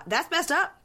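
high-pitched imitation of an indignant husband; indignant protest. Host acting out husband's objection to her travelling, indignant.

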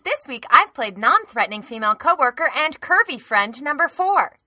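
loud, punchy show opener; podcast intro. Real, not acted.

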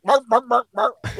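lightly imitated puppet bark; a quick run of pretend woofs. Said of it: "you'll see it bark".

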